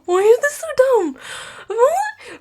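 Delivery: exasperated whisper. Real, not acted. Exasperated rant.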